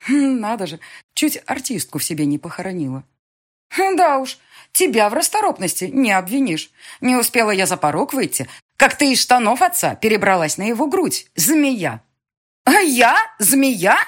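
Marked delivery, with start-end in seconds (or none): 3.7-12.0 raised, loud taunting scorn; a hint of venomous mockery; mocking sneer. Emian mocks stepmother. 12.6-13.2 very high, loud flustered indignation; sputtering shriek. Acted. Dema sputters, appeals to Nemir. 13.4-14.0 Змея? rising high in shocked outrage; outraged echo. Acted. Dema repeats insult outraged.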